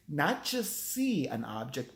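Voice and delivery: slow, plain first "see an object"; pompous artist. Retold or imitated. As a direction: set up the contrast slowly. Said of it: "Another thing he truly said".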